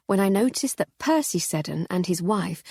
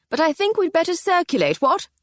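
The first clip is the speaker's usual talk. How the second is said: put-on jovial old colonel; 12 semitones higher, 5 dB louder than usual. Voiced Sir Hector.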